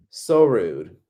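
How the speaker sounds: whispered aside. Real, not acted. Muttering to viewers about the rude vendor, whispered. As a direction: breathe it under your breath.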